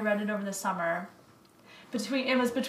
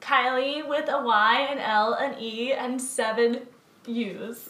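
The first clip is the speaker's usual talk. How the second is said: lightly voiced Instagram model; bubbly sorority girl. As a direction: gush like an influencer selling a product. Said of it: "that was an Instagram model character".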